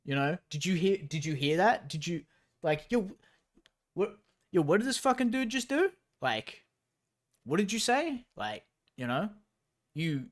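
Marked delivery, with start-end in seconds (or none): 0.0-8.2 put-on higher-pitched, fast, hyped-up kid voice; imitating a kid stirring up a fight; mock schoolyard instigator. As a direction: whip the crowd up, faux-outraged. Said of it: "You're like".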